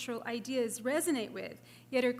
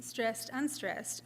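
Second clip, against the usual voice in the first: slow, softer stressed then unstressed; trochee demo; 4 dB quieter, much slower than usual. Shown as a demonstration. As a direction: say stressed heavy, unstressed light, slowly. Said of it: "Substitutions of trochees".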